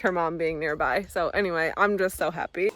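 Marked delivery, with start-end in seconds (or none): 1.8-2.7 breathless after a hill climb; out of breath. Real, not acted. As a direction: speak winded from the walk. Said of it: "I'm a little out of breath".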